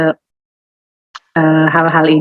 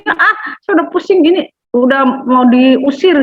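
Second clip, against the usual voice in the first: irritated judge; 5 semitones higher than usual. Retold or imitated. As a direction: play the fed-up unjust judge, dragging the last words. Unjust judge voiced in parable. (hakim lalim yang jengkel, suara tinggi dan lambat)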